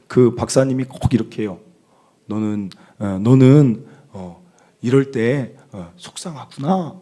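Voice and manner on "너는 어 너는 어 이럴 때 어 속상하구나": lightly imitated counsellor's empathy; 오은영 박사. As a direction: draw it out haltingly, mimicking a child counsellor. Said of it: "뭐 좀 그 말투가 있어요". (상담 박사 말투를 살짝 흉내 내며 천천히)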